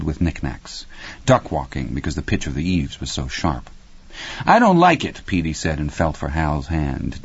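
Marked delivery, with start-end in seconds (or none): 4.4-5.2 put-on high, louder child's voice; high-pitched kid's protest; uneasy little boy. A narrator's reading. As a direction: voice a small boy balking, pitched well up. Small boy Petey uneasy in attic.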